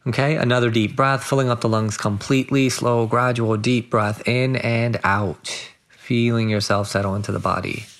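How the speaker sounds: unhurried meditation guide, long pauses between phrases; guided meditation. Acted. Guide settling listeners into body and breath, measured meditation voice. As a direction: guide them gently into stillness, phrase by phrase.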